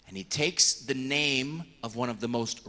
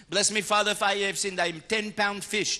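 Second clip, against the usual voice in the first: mock penitent; 5 semitones higher, 4 dB louder than usual. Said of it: "you can always say to the priest".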